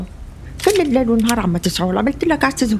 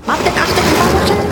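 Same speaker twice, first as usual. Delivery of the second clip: playful teasing; 7 semitones higher, 4 dB louder than usual. Acted. Mother teasing her daughter.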